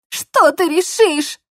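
high, slow tearful; sobbing question. Acted. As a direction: choke it out through sobs. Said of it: "всхлипнула она".

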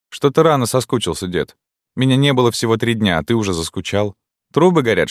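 high, mocking jibes at the stepfather. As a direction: needle him with a high sneer. Daughter mocks stepfather.

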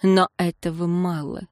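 ordinary delivery

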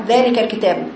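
"ذلك الكتاب" with the long vowels cut short; snatched madd. Retold or imitated. Teacher showing careless reading, vowels shortened. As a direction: skim over each madd in "ذلك الكتاب". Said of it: "اختلاس حروف المد".

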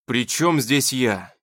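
exasperated and tired; weary retort. Acted. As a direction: drop it wearily. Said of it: "устало бросил Плахов".

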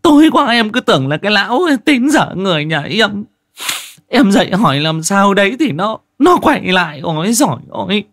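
high, loud, panicked female voice; frightened woman's telling. Acted. Wife telling the crew what she saw, terrified and trembling. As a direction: pour out the horror still shaking. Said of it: "chị Giang vẫn cứ run rẩy kể".

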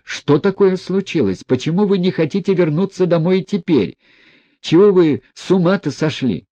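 high, loud and indignant; boiling over. A narrator's reading. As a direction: demand answers, fuming. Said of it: "закипел вдруг Коля".

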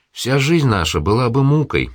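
ordinary delivery, nothing marked

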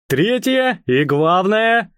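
slow it down and raise your voice. Acted. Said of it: "он повысил голос". (повысив голос, медленно)

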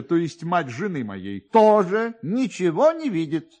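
chatty police officer. A narrator's reading. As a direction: prattle on like a fussy, self-pleased clerk. Officer's long explanation, held voice.

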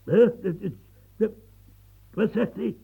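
a sharp, loud, startled hè; shocked hè. Acted. Old man hears of house search, startled. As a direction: jolt at the news.

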